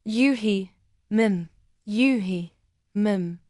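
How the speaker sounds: hoarse and affectionate. Acted. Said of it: "his voice hoarse yet affectionate".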